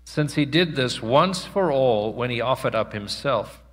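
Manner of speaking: measured public Bible reading, pausing between phrases; scripture reading. Real, not acted. Preacher reading Hebrews to the congregation, measured scripture reading. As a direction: read the passage out solemnly, phrase by phrase.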